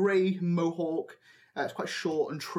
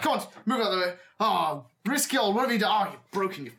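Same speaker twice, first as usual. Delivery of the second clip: put-on a touch higher, exasperated old man; lightly voiced ringmaster; 4 semitones higher, faster than usual. Old man reaches his injured acrobat, mildly exasperated. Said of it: "He's like".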